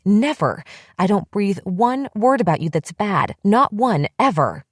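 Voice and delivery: rising, raw outraged tirade; furious accusation. Acted. Bethy accusing her friend of calling her crazy, furious. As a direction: pour out every hurt, building to the end. Furious confrontation over betrayal.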